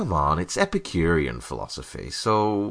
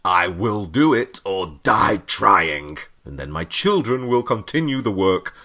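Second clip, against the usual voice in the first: hammy heroic vow; 3 dB louder than usual. Pretend. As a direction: declaim like an epic hero.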